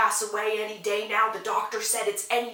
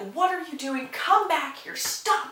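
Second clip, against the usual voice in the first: acted, shaky, trembling, high-pitched screaming; 6 semitones higher than usual. Retelling a man screaming after a woman who walks away: imitating someone screaming. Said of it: "He is trembling and screaming after her".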